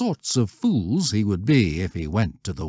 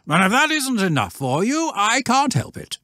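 curt master. A narrator's reading. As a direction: close the question flatly.

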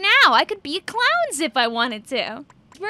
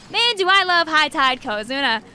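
sarcastic. Acted.

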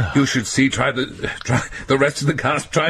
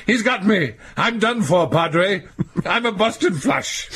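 overacted death scene; 3 semitones higher than usual. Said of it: "Clutch your chest and fall over, saying".

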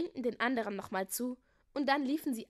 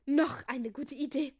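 slow, louder exclamation; approving call; 3 semitones higher, 5 dB louder than usual. A narrator's reading. King praising another idea, slow louder call. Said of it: "rief der König".

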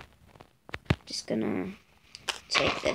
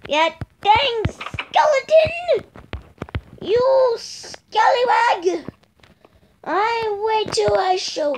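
pirate threat; 11 semitones higher, slower than usual. Pretend. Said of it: "threatens skeleton in pirate voice".

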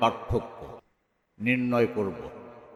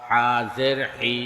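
final "হি" cut short; quick short vowel. Shown as a demonstration. Teacher demonstrating normal jer, short "হি". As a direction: keep the last "হি" brief, not held. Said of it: "তাড়াতাড়ি করতে হয়".

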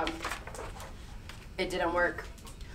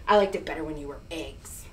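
much lower, softer, fast bear grumble; a deadpan gripe at the goslings; grumpy bear grumbling at goslings; stern grumpy bear; 8 semitones lower, 8 dB quieter, faster than usual. Acted. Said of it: "Bruce was very stern".

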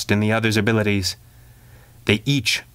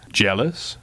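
teasing. Acted. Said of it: "her partner teased".

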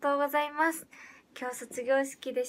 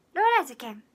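Hiroshima dialect; 7 dB louder, much faster than usual. Pretend. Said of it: "広島弁タイムスタートです".

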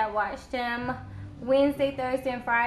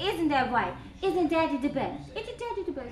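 put-on baby voice.

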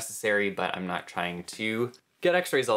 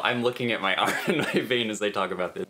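laughing; faster than usual. Real, not acted. Laughs while describing arm.

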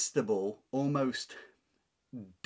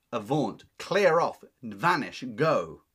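commanding Anne; 7 dB louder, slower than usual. Acted. Teacher paraphrases Anne banishing devil.

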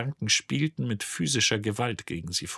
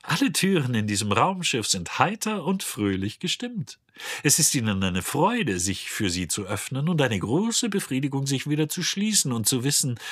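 sing-song advertising cheer, a little higher; mock brochure voice; 4 semitones higher than usual. Robot mocks the ship's door brochure, sugary mock ad voice. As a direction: ape a glossy sales pitch with irony. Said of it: "den Stil der Werbebroschüre nachäffte".

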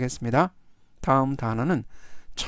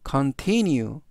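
continue stressed on the I after T, con-TIN-ue; stress on middle syllable; much slower than usual. Shown as a demonstration. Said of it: "T 바로 뒤에 있는 I의 강세". (continue의 T 뒤 I에 강세)

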